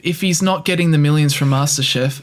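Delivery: deadpan mock defence of the boss; feigned reasonableness, tongue in cheek; sarcastic. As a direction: argue the indefensible as if it were obvious. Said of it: "there was definitely sarcasm in that".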